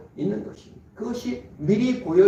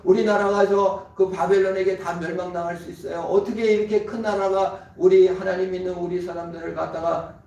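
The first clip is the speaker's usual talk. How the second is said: prophet protesting. Retold or imitated. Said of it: "하고 하나님께 질문을 던져요".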